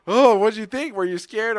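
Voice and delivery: high, teasing mock question; mocking family voice. Family teasing the hungover brother, high and mocking. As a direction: tease him like the pranksters did. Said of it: "They're like".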